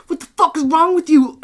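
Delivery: high, loud outraged shout; imitated angry yell. Kicked-out kid to the host, mock angry yell. Kid refusing to leave, acted quarrel.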